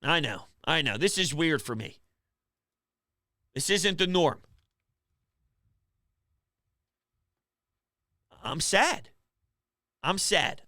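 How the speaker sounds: low, hushed and deflated; real sadness, barely lifting the voice; subdued, defeated murmur; quiet and sad. Real, not acted. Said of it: "This is me being quiet".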